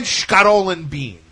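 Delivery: Scaro said slowly and insistently as SHKAH-roh; slow, firm Scaro, final vowel dropped; Italian-American way. Retold or imitated. Repeating his order firmly to the pizza girl. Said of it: "Like I said".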